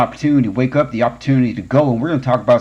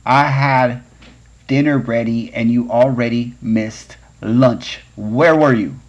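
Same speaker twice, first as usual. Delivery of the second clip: mother scolding; 3 dB louder, slower than usual. Retold or imitated. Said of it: "My mother said".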